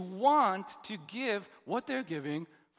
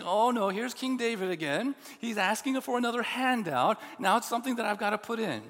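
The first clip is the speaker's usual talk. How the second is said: mock grumbling congregant; 3 semitones higher, 7 dB louder than usual. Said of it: "people in the congregation saying".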